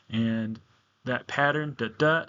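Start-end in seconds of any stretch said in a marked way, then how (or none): 1.8-2.3 weak "da" then strong "da"; single iamb. Shown as a demonstration. Teacher naming the iamb for class, "da DA" with second stressed. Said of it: "that's called an iamb".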